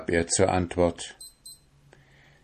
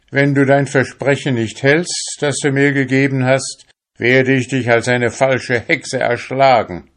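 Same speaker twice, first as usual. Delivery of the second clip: loud, raised threat with a dark edge; grim threat; 6 semitones higher, 6 dB louder than usual. Acted. Fisherman threatens the witch who breaks her promise. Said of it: "mit finsterer Miene".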